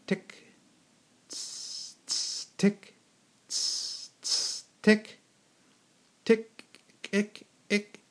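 whispered clock ticks and hisses; ticking and hissing. A narrator's reading. Narrator voicing clock and snake, whispered ticks. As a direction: tick and hiss softly like clockwork.

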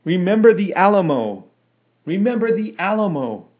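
loud, high battle cry; rallying shout. A narrator's reading. Men picking up the rallying cry.

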